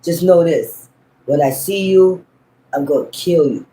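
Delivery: measured threat in short, separate phrases; ruthless movie father. Retold or imitated. Father telling the man who got his daughter, understated ruthless warning. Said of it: "he ruthless as hell".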